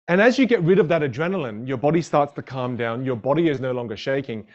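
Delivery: normal talking voice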